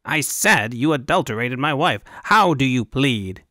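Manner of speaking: pompous accuser, slowing on the question; lightly voiced indignant official; irate governor.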